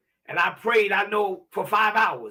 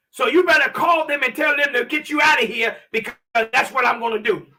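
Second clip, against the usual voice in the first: higher, insistent warning voice; retold threat; 3 semitones higher, 4 dB louder than usual. Cellmate warning the new arrival to get out, raised threatening voice. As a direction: imitate a hard ultimatum, pitched up and pressing.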